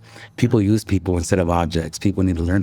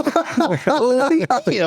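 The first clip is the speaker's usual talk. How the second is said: much higher, very slow stretched teasing; slow teasing drawl; much slower than usual. Retold or imitated. To a friend on vacation, slow high mock question. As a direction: stretch every word out to needle him. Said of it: "And I'm like".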